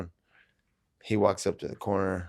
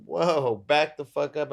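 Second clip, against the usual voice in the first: louder, higher order to back off; retold warning; 5 semitones higher, 6 dB louder, slower than usual. Fighter tells rival to back off, forceful retold warning. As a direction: act out warding him away.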